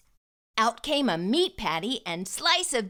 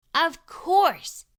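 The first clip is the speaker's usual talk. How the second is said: higher and louder eureka; the big final aha, delighted; excited realization; 7 semitones higher, 4 dB louder than usual. A narrator's reading. Final realization in children's story.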